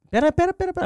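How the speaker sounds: ordinary talk, nothing marked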